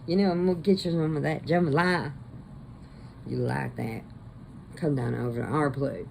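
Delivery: lightly mocked Cajun accent; imitated Cajun accent. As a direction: imitate a struggling attempt at Cajun. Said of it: "trying so hard to get this accent".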